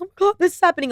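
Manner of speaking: high-pitched mock whine to mom; whining. Calling mom about a crisis, whining. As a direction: whine it like a needy daughter. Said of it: "and whine to her".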